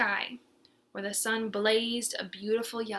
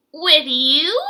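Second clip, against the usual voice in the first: louder, higher startled question; astounded; 4 semitones higher, 12 dB louder than usual. Acted. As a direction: gasp it in disbelief. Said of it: "The yellows were astounded".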